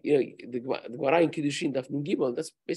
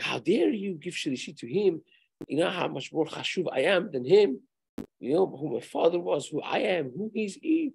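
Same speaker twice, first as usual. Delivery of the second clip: mock outraged yell; 5 semitones higher than usual. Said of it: "he goes through the roof".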